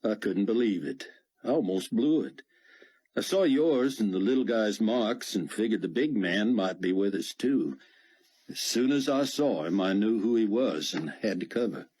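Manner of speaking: put-on southern US accent. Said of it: "his accent now southern U S".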